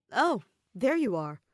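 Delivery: light up at the sight of him; beaming. A narrator's reading. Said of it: "the blonde adventurer beamed".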